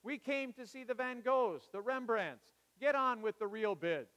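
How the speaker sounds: loud, high, indignant shout; a hammed-up angry bidder barking at the auctioneer. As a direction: demand the masters, fed up. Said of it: "shouted angrily".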